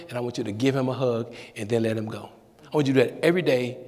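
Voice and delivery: a hint of a deep, calm reverend; deep-voiced pastor. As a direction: reverend answering the young intern, low and calm. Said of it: "with his deep voice".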